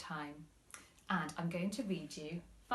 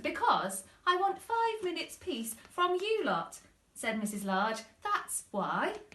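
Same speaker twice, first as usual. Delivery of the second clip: louder, higher, fed-up mother; exasperated mum; 9 semitones higher, 5 dB louder than usual. Acted. Mum telling the kids off, exasperated and louder. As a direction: lay it on like a tired mum.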